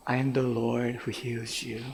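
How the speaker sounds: soft, low, solemn tenderness; gentle divine assurance. Acted. God speaking healing to the crying young man, gentle assurance. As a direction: speak it quietly as a comforting promise. God's word in retold prayer.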